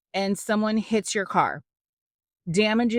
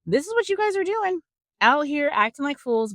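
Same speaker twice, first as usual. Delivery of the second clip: voicing God; 9 semitones higher than usual. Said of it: "He gets to the nitty-gritty and is like".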